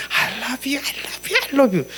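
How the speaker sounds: high, sweet, breathy-free "I love you" said like a bride; bride's voice. Shown as a demonstration. Pastor cooing I love you like a bride. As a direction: coo it like a bride to her groom. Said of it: "완전 신부의 음성으로".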